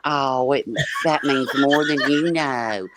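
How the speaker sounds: slow, syrupy gratitude; sugary mock thank-you. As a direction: gush it out sweetly. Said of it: "it's the same damn thing".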